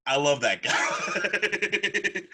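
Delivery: very slow, high, loud cry of affection; drawn-out gushing shout. Real, not acted. Cheering Shaq despite his bad movie, slow loud gush. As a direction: stretch every word out like a fan yelling.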